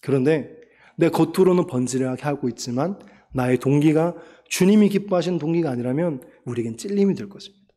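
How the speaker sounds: normal talking voice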